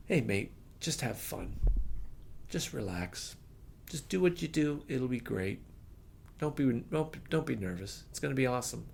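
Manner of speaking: soft, calm reassurance; reassuring. Retold or imitated. Bassist with an arm round him calming him down, soft and reassuring. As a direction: gently settle a nervous friend. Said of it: "puts his arm around me".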